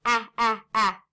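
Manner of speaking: short A as in tad, "ah, ah, ah"; short A sound. Shown as a demonstration. Teacher isolating tad's vowel, "ah" repeated as short A. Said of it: "The vowel sound in tad".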